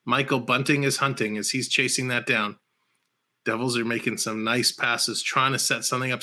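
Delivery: brisk running hockey commentary; play-by-play commentary. Acted. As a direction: call the action as it happens. Live hockey play-by-play call.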